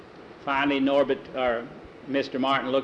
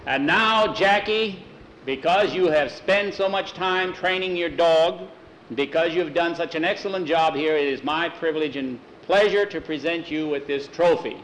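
award presentation; 2 semitones higher than usual. Acted. Presenter hands over trophy in ceremony.

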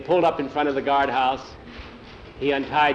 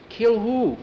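much higher, puzzled question; startled question; 9 semitones higher than usual. A narrator's reading. Jackie to the boy vowing revenge, startled question. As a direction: ask it high, taken aback.

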